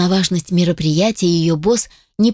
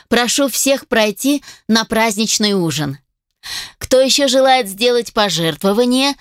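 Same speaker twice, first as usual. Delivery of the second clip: announcer voice; 4 semitones higher than usual. Acted. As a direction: announce it to the whole hall. Auctioneer announcing to the hall.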